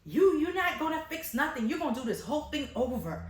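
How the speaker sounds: high, loud indignant repeat of "Fix?"; outraged mother. Retold or imitated. Stylist imitating the angry mother on the phone, high indignant outrage. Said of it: "She was like".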